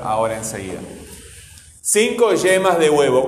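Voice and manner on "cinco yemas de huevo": "cinco yemas de huevo" with clear word stresses; stressed syllables demo. Shown as a demonstration. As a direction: lean on "cin" in "cinco", "ye" in "yemas", "hue" in "huevo". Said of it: "las sílabas que suenan fuerte".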